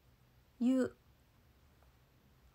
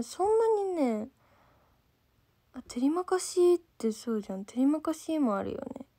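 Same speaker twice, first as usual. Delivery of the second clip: ordinary talk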